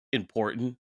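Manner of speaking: talking through hiccups; speech broken by hiccups. Real, not acted. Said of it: "I have the hiccups so bad".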